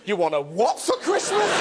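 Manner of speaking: lightly voiced Santa, disbelieving question; a hint of Santa, taken aback on a call. Santa taking a child's Christmas call, lightly voiced, incredulous. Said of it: "Imagine Santa getting that call".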